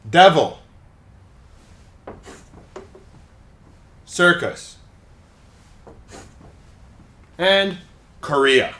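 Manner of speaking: "Complete", "Occasion", "Devil", "Circus", "Korea" each said alone, stressed syllable punched; stress demo. Shown as a demonstration. Teacher reads word list to show stress, one word at a time. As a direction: model each word with its stress clearly marked. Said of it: "notice where the stress is".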